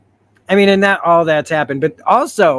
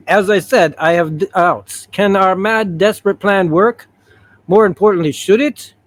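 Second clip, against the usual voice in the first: put-on higher, halting Russian-accented doubts; attempted Russian accent; 4 semitones higher than usual. Colossus doubting the plan, in an attempted Russian accent. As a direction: try a Russian accent, questions lifting up. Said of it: "why I can't do Russian all of a sudden".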